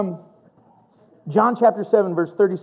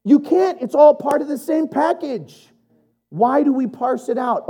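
sassy; 7 semitones higher than usual. Real, not acted. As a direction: challenge them with a sassy edge. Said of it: "I get a little sassy".

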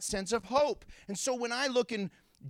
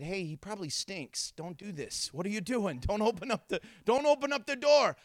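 worried family protesting. Retold or imitated. Voices the alarmed family protesting.

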